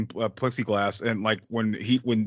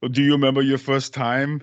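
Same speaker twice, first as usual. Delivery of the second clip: louder, lightly imitated movie star; Arnold; 5 dB louder than usual. Friend quotes the star's bathroom question, louder light imitation. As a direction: pose it as a light impression, a bit loud. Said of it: "Arnold's like".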